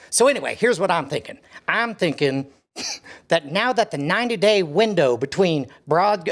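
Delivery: lightly voiced oil baron leaving a voicemail. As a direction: play a brash tycoon on the phone. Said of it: "my generic oil baron voice".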